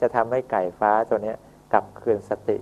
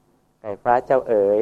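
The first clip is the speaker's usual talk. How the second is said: sweet gentle address; slower than usual. Acted. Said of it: "ได้คำไพเราะ".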